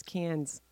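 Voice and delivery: "Cans" ending in an audible s; anglicized pronunciation. Shown as a demonstration. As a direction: pronounce "Cans" as in tin cans. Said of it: "this pronunciation of Cans".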